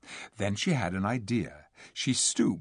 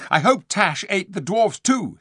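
high, loud schoolboy spite; spiteful; 9 semitones higher, 7 dB louder than usual. A narrator's reading. Eustace wishing ill on the dwarfs, spiteful. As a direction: spit out the wish with feeling.

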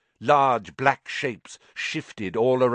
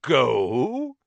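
slow; 4 semitones higher, 5 dB louder than usual. A narrator's reading. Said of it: "said Aragog slowly".

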